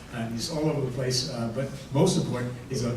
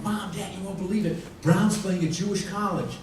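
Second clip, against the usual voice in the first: put-on excited kid; 6 semitones higher than usual. Kid excitedly tells parents news.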